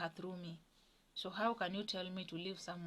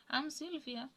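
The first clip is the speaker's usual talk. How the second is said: mother's put-on voice; 7 semitones higher than usual. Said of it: "talking to me with a different tone of voice".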